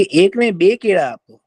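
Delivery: a touch of playful greedy monkey; cheeky demand. Acted. Greedy monkey demands more bananas.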